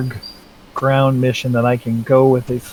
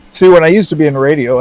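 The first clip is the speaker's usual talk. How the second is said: radio voice; 3 semitones higher than usual. Shown as a demonstration. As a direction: put on your old radio voice. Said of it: "See if I can still do it".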